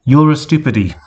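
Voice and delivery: mock yell at the robot head; yelled back. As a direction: fling it back at her. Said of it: "Twilight yelled back".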